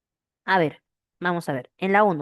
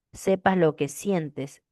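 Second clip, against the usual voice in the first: "Sepas lo que sientes" drawn out slowly to show the vowels; slow it down to show the vowel groups in "sientes"; slow syllable demo; slower than usual. Shown as a demonstration. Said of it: "Hay tres diptongo, cuando es uno". ("Sepas lo que sientes" dicho despacio, marcando las vocales)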